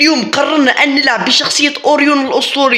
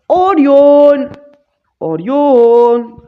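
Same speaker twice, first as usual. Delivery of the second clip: drawn-out announcement; 4 semitones higher, 4 dB louder, much slower than usual. Real, not acted. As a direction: stretch out اوريون slowly and proudly. Announces the character name. (نطق اوريون ببطء وتمطيط)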